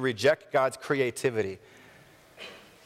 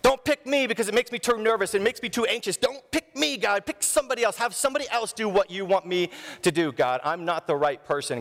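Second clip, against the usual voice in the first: high anxious plea to God; higher pleading; 7 semitones higher than usual. Retold or imitated. Nervous believer begging God to choose another, high pleading. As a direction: beg God to pick someone else.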